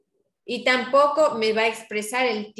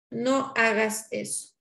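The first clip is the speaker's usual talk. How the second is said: slow pleading request; slower than usual. Shown as a demonstration. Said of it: "Estamos esperando algo de una persona".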